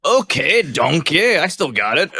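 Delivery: cartoon ogre impression; Mike Myers as Shrek. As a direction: slip back into the ogre voice. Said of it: "Just right into the voice".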